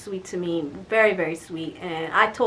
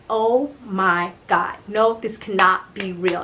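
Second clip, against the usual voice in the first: slow, stunned disbelief; dismayed disbelief; 3 semitones lower, slower than usual. Retold or imitated. Litigant finding her shoes missing, dismayed disbelief. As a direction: draw it out in dismay.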